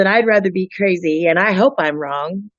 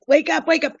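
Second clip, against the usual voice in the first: mild frustration; 10 semitones higher than usual. Retold or imitated. Woman recalling pleas to her abused friend, mildly frustrated. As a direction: urge her in a raised pitch, mildly exasperated. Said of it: "get a little frustrated".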